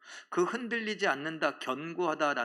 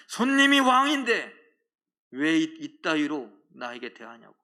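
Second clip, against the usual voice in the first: entitled angry customer; 9 dB louder than usual. Retold or imitated. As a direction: shout it like a customer demanding to be king. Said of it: "화를 내시지는 않으시겠습니까".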